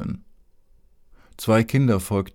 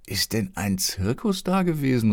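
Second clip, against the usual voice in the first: put-on eager, higher boy's shout of joy; a boy spots deer and cheers; jubilant cry; 4 semitones higher than usual. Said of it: "rief er jubelnd".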